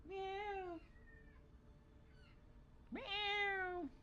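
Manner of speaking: high, soft mock meow; cat meow. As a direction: mew thinly like a cat. Imitates the cat.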